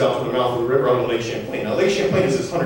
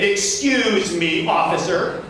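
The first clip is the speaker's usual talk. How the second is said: slow, drawn-out "excuse me", pitched up; indignant challenge; 5 semitones higher, much slower than usual. Retold or imitated. Sue pushes past to confront a trooper, indignant. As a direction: stretch it out to confront an officer.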